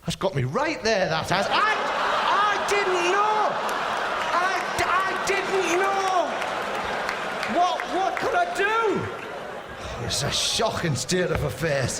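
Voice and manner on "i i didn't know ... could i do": very high, slow drawn-out wail; mock wailing protest. Comic excusing his faux pas, mock wail. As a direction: plead innocence in a hammed-up wail.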